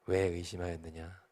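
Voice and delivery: low, soft, slow question; quiet, measured divine question; the Lord's voice. Acted. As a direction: ask it gently and gravely, as the Lord. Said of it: "주님이 말씀하셨어요".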